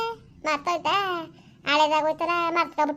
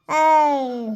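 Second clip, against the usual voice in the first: loud, sudden call to cut her off; loud angry hey; sharp shout; 3 semitones lower, 5 dB louder, much slower than usual. Acted. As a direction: bark it to silence her. Angry quarrel, calling out sharply.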